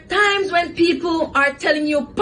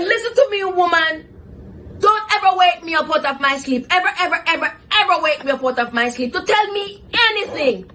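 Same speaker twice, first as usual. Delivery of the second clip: angry retort; 3 semitones higher than usual. Retold or imitated. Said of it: "I was so angry".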